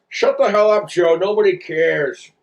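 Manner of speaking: lightly voiced irritated cartoon dad; mildly annoyed cartoon dad voice; Peter Griffin. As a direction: brush them off as an oafish cartoon dad. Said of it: "do a Peter Griffin voice".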